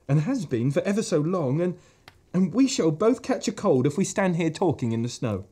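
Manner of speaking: gentle creature offering tea; lightly voiced fawn.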